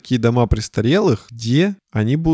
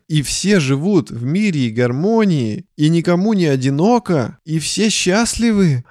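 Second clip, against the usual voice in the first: rising, higher and higher with joy; dreamy delight; 5 semitones higher than usual. Acted. Pitching the idea to his co-host, rising with delight. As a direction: paint a happy utopia, lifting on счастливы. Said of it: "какой-то акцент появился".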